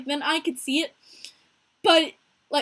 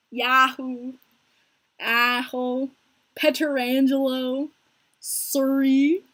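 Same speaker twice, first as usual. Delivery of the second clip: lightly imitated Canadian accent; slow, drawn-out Canadian pronunciations, one word at a time; John; 3 dB louder, much slower than usual. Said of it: "John has a total Canadian accent".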